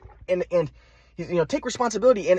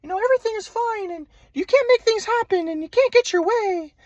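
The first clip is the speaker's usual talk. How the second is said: mock grandpa voice; 14 semitones higher than usual. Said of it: "My grandpa was just like".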